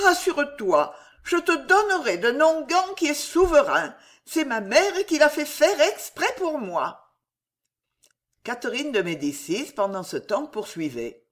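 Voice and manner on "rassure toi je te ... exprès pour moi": high-pitched duke comforting his favourite; reassuring duke. A narrator's reading. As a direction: reassure him in a high, airy voice. Duke's voice in story. (duc rassurant, voix très aiguë)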